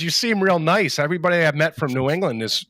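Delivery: lightly imitated Texan; Texas local. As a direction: retell it as a friendly Texan. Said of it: "And he goes".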